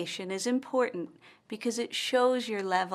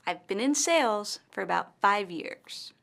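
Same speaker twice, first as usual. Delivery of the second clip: "sales" and "five years" said longer and louder; stress on SALES, FIVE YEARS. Shown as a demonstration. Teacher models Amanda's example sentence, "sales" and "five years" stressed. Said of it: "Which words are longer and louder".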